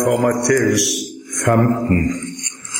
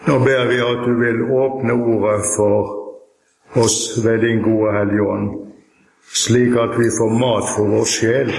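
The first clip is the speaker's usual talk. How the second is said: prayer; 2 semitones lower than usual. Real, not acted. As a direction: pray in unhurried phrases, pausing between them. Opening prayer before the reading.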